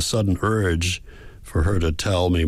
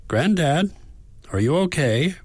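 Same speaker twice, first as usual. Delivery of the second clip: put-on higher, anxious young woman's voice; worked-up granddaughter; 10 semitones higher than usual. A narrator's reading. Granddaughter calling, worried, in a higher voice. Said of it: "She sounds worked up".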